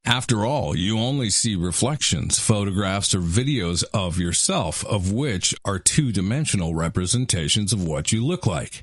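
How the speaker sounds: hyped-up teaser read, rising at the end; clickbait video narrator. Acted. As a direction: sell the question like a clickbait video.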